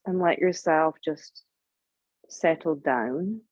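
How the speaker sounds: unhurried guiding voice with long pauses; guided meditation. Real, not acted. Yoga teacher settling the group before Yoga Nidra, guided meditation. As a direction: ease them into stillness, leaving long silences. Begins leading the guided practice.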